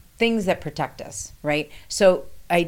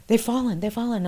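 urgent cry; 6 semitones higher than usual. Retold or imitated. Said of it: "I'm screaming".

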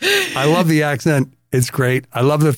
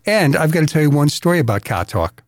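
Boston accent; 2 semitones higher than usual. Shown as a demonstration. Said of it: "gonna talk like they talked".

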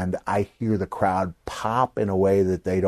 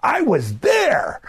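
high, slow shouted "I was there"; vociferous repeat; 3 dB louder, slower than usual. Shown as a demonstration. Young kid insisting in Almost Famous, shouted high and slow. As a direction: cry out the repeat with much more force. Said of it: "much more vociferousness".

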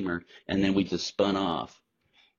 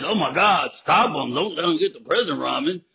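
loud, higher mock alarm; louder hammed-up outrage at the ban; mock panicked official; 7 semitones higher, 7 dB louder than usual. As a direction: ham up a panicked censor. Mocking prison officials banning book.

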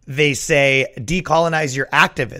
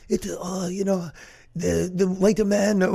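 hesitant mock Asian accent, higher pitched; slow, raised-pitch Asian-accent impression; 5 semitones higher, 4 dB quieter, slower than usual. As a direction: put on a halting Asian accent. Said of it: "he talks in an Asian accent".

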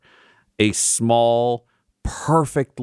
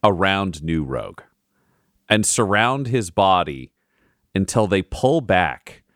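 slow, hushed scene setting; story narration. A narrator's reading. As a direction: paint the scene slowly. DM narrates magical reveal.

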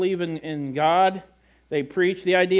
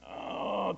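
straining groan; 12 dB quieter than usual. Acted. Mimes struggling in a slow-motion dream.

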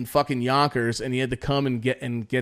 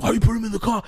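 high-pitched mock yell; retold angry yelling; 8 semitones higher, 3 dB louder, much faster than usual. Dad confronting the cop over his son, imitated indignant yelling. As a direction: protest indignantly, pitch jumping up. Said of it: "Dad was, like, yelling at Tony".

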